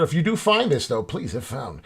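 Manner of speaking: deadpan reading of a return address label; mock postal notice. Joking to his viewers, deadpan as a parcel label. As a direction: read like a label on a parcel, slow and soft. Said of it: "just a joke".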